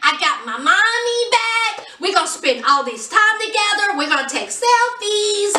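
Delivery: high, gleeful gushing as someone else; ecstatic. Retold or imitated. Overjoyed friend celebrating a breakup, imitated ecstatic. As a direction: imitate someone thrilled at good news. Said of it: "Jasmine is ecstatic".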